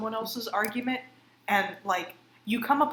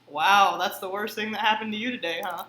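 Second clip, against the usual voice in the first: sarcastic; 6 dB louder than usual. Retold or imitated. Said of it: "you're like".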